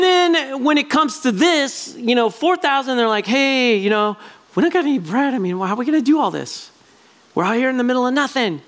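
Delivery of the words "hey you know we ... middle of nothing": quick, worried grumbling; fretful disciples. Retold or imitated. Disciples fretting to each other about bread, quick and worried. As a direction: hurry through it like anxious followers.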